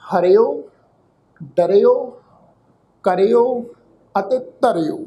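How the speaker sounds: ਹਰਿਓ, ਡਰਿਓ, ਕਰਿਓ, ਧਰਿਓ one by one, each ending ri-o; ਹਰਿਓ, ਡਰਿਓ, ਕਰਿਓ, ਧਰਿਓ as spaced teacher's models; careful pronunciation. Shown as a demonstration. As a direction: list ਹਰਿਓ, ਡਰਿਓ, ਕਰਿਓ, ਧਰਿਓ with pauses, short i before the o. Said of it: "ਪਾਠ ਉਚਾਰਨ ਕਰਾਂਗੇ ਜੀ".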